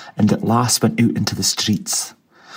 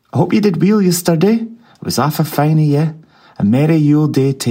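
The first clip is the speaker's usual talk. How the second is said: jolly Scrooge; 5 semitones higher, 4 dB louder, faster than usual. A narrator's reading. Scrooge voiced by narrator.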